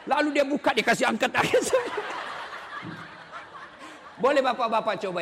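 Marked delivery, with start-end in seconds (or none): 1.4-3.0 an unvoiced high laugh; breathy high laugh. Real, not acted. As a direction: laugh at the punchline. Laugh at own story.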